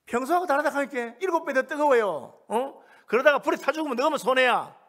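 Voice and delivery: loud, high-pitched retold warning; acted-out emphatic dissuasion; urgent warning. Acts out others warning the three friends.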